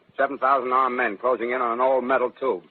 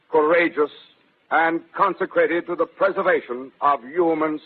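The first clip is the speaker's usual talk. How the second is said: steady the nation with a formal address; a grave statesman on the radio; Secretary's address; 3 semitones higher than usual. Acted. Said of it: "The Secretary of the Interior".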